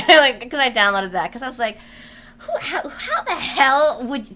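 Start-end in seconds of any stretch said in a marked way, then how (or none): 2.4-4.3 mock anger. Dragonborn rebuking Delphine, mock anger. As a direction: stammer into grand indignation. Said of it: "shake with your anger".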